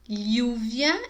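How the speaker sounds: "Lluvia" with a gliding ly onset; demonstrated ll sound. Shown as a demonstration. Teacher showing students the ll sound, demonstrated pronunciation. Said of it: "Esse som aqui".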